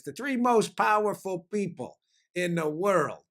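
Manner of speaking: lightly imitated Italian accent, slow and deliberate; slow, measured mock Italian accent; teacher's Italian accent. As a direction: quote an old history teacher with a hint of Italian accent. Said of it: "with that Italian accent of his".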